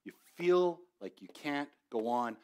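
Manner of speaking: a Braveheart-style battle cry of encouragement; passionate yelling William Wallace. Retold or imitated. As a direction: fire them up like a freedom fighter before battle. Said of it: "strong, passionate voice yelling at you".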